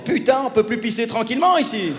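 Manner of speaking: exasperated grumble, lightly acted; mock annoyance. Man to girlfriend who joined him in the shower, mock annoyed. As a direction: protest like your privacy was invaded.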